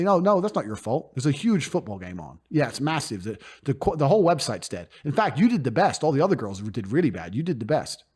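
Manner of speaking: calm her down kindly; reassuring. Retold or imitated. Pimp reassuring a webcam girl after a bad day, gently. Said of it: "I'd say".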